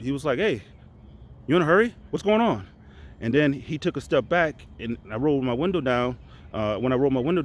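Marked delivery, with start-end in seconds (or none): 0.4-2.7 pushy cop, pitched up high; officer with attitude. Retold or imitated. Cop questioning a speeding soldier, with attitude. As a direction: demand it like a cop with a chip on his shoulder. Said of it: "he had a little attitude".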